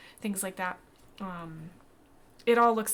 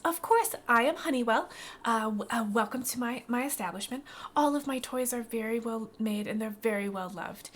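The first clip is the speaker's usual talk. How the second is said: welcoming toymaker shopkeeper; 2 semitones higher than usual. Acted. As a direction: greet customers proudly in a raised voice.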